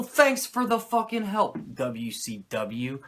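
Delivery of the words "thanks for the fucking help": sarcastic. Real, not acted. Sarcastic thanks to WCW.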